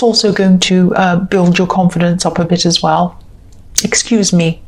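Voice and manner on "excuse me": hiccuping mid-sentence; interrupted by a hiccup. Real, not acted. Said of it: "Sorry, I've got the hiccups".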